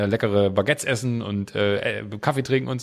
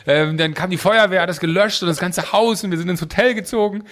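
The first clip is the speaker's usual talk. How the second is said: exaggerated tearful story; 7 semitones higher, 3 dB louder than usual. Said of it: "ich hab das so total übertrieben und, so fast mit, mit Tränen vorgetragen".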